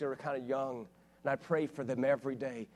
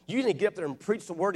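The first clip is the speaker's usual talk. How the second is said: retold demand; 6 semitones higher, 6 dB louder, faster than usual. Pastor demands he preach.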